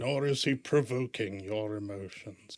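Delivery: slow, solemn wizard intoning; Gandalf voice. Acted. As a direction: speak slowly like an old wise wizard. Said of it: "That sounded like a Gandalf".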